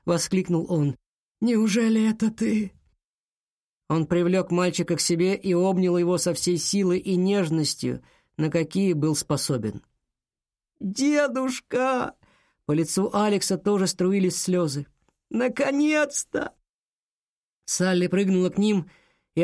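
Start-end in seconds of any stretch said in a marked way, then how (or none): 1.4-2.7 astonished. A narrator's reading. Grandfather reunites with grandson. 10.8-12.1 high, slow cry of relief through tears; tearful cry. A narrator's reading. Tearful reunion with grandfather. 15.3-16.5 tearful relief. A narrator's reading. Tearful reunion with grandfather.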